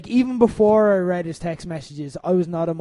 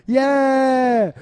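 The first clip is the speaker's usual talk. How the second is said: higher, louder mock crowd cheer; 6 semitones higher, 6 dB louder than usual. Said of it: "the way the crowd were meant to go".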